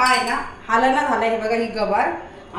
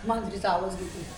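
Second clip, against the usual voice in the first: low, soft aside; hushed aside; 8 semitones lower, 9 dB quieter than usual. Real, not acted. Owner telling viewers about a cat sound, hushed. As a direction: drop the voice so the dog won't catch on. Aside before tricking the dog.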